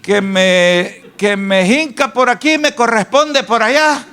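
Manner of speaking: high, fretful complaining with sighing ays; mock hypochondriac moaning about his illness; whiny worried hypochondriac. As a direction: play a worrier sure he is dying. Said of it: "le dice el doctor".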